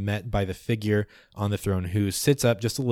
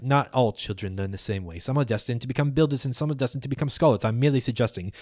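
arguing elder retorting; faster than usual. Acted. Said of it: "The other one shoots back".

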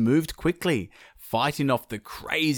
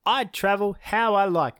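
defiant sun; 10 semitones higher, 3 dB louder than usual. Acted. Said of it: "he was like".

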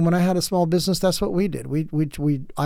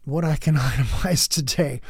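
mock whisper; 3 semitones lower than usual. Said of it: "I don't wake up and go".

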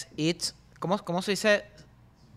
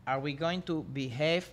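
slow second try; slower than usual. Shown as a demonstration. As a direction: read it again slowly, trailing off. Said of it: "Te lo voy a decir otra vez".

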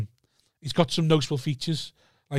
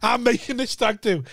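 laughing mock boast; 6 semitones higher than usual. Laughing through the quote.

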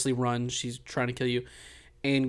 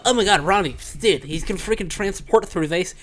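high, excited gushing fanboy; gullible; 5 semitones higher, 5 dB louder than usual. Retold or imitated. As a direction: gasp it out like a wide-eyed sucker. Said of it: "you sound so gullible".

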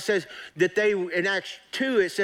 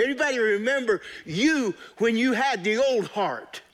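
preaching; 3 semitones higher than usual. Acted. Pastor urging his congregation, in full preaching voice.

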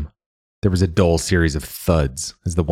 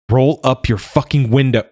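"Roll" punched loud and higher, full shout; urgent shout; 8 semitones higher, 5 dB louder than usual. A narrator's reading. Joa shouting at Mila as birds attack. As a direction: bark the order in alarm.

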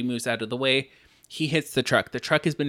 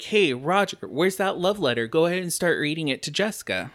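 higher, quick eager voice; excited; 4 semitones higher than usual. Retold or imitated. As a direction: urge him on brightly and fast. Quoting a character.

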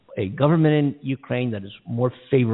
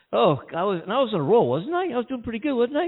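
laughing; 11 semitones higher than usual. Real, not acted. Laughing at his own slip.

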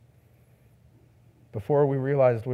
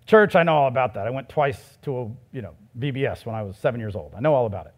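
sarcastic outsider; 3 semitones lower, faster than usual. Retold or imitated. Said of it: "it sounds something like this".

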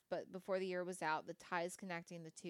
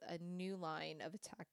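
hiccups; 3 dB quieter than usual. Real, not acted. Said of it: "Sorry, I have the hiccups".

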